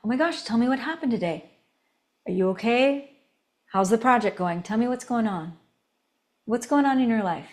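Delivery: soft, friendly check-in; conversational connector. Shown as a demonstration. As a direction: show caring interest in a gentle, open voice. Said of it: "It's conversational".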